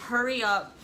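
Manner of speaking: panicked mother demanding a C-section; retold frantic yelling. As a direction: yell at them to hurry, then beg. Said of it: "And I was like".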